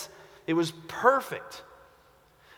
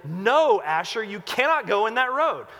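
firm call to dog; 2 semitones higher, 3 dB louder than usual. Retold or imitated. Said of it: "pull him back and say".

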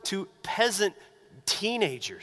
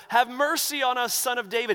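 yelling out; 4 semitones higher than usual. Retold or imitated. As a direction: call out to be heard over a crowd. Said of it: "these two blind men are yelling out".

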